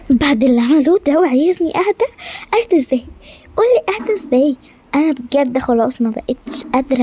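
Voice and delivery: furious queen. Acted. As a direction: vent like a fed-up queen. Queen's outburst.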